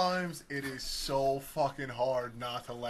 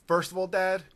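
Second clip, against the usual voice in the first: higher, louder, pointed correction; imitating a sassy kid; 6 semitones higher, 5 dB louder than usual. Four-year-old correcting his dad, mock sass. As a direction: correct Dad like a little smart-aleck.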